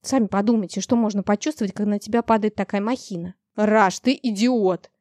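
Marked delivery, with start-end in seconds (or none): 3.6-4.9 slow, heavy scolding. Acted. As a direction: tell off a reckless beast. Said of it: "чистил дракона хозяин".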